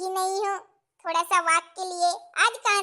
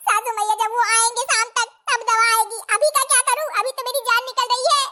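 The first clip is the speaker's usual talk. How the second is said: put-on higher, louder fretting young bride; 6 semitones higher, 8 dB louder than usual. New bride alone in kitchen, fretting in high voice. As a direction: fret like a clumsy new bride.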